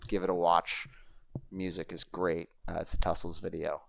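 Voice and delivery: soft unvoiced whisper. Real, not acted. Recommending the trial to viewers, whispered. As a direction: breathe the tip like a secret. Hushed aside recommending a video.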